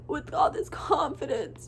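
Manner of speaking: slow, tearful, laughing at herself; crying through a laugh. Real, not acted. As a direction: voice breaking, half laughing. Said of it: "I hate crying".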